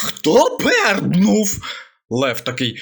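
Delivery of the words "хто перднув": slow, threatening demand, drawn out; menacing. Acted. The hare menacingly asks the trapped animals. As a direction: lean on each word like a threat. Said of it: "заєць загрозливо".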